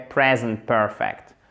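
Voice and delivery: "Present perfect" slow, PRE and PER stressed; stress on first syllables. Shown as a demonstration. Teacher models "Present perfect", stressing first syllables. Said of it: "accent tonique sur les deux".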